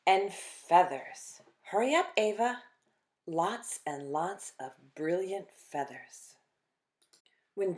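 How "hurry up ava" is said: calling out. Acted. Sister calling to sibling.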